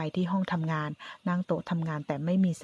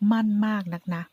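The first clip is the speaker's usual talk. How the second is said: spiteful sneer; 4 semitones higher, 4 dB louder than usual. Acted. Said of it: "แอบมองนึกหมั่นไส้".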